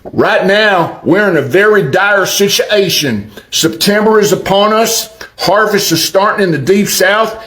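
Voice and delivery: lightly hammed-up Arkansas accent. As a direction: quote it in a mock Arkansas accent. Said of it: "do it in my best Arkansas accent".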